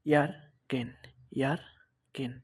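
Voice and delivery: "ইয়ার গেন" with ä voiced as "ya"; A-umlaut demo. Shown as a demonstration. Teacher models A-umlaut for learners, syllable-by-syllable "ইয়ার গেন". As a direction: break "ইয়ার গেন" into two separate parts. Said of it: "এটাকে আমরা ইয়া ভা-, উচ্চারণ করব".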